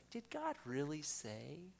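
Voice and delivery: slow, questioning tempter's voice; voice of deception. Acted. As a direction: plant doubt slowly and softly. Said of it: "that voice of deception".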